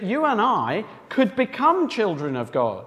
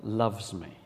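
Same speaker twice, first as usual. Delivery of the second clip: gentle reassurance; 10 semitones lower, 9 dB quieter, slower than usual. Shown as a demonstration. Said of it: "keep reminding ourselves of".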